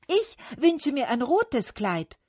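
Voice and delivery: high, loud wish; calling out. A narrator's reading. Cherry tree asking for red, calling out. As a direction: call out eagerly, high and loud. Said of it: "rief der Kirschbaum".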